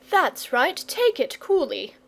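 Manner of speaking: mock the dragon's calm; cheeky boy. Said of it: "said the boy".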